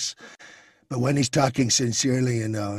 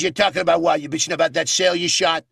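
louder, aggressive salesman bark; Baldwin-style Trump rant; 4 dB louder, faster than usual. Retold or imitated. Trump voiced as the Glengarry boss berating a salesman, loud. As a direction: tear into him like a sales boss. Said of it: "like Alec Baldwin in the movie Glengarry Glen Ross".

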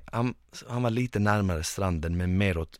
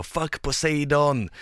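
drawn-out mock battle cry, a bit higher; retold yell; 6 semitones higher, slower than usual. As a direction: yell a defiant challenge at the sea. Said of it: "och jag skriker". (halvhjärtat skrik)

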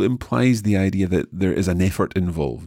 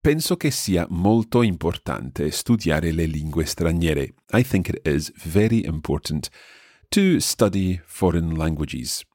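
slowed down. Shown as a demonstration. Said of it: "I'll slow this down again".

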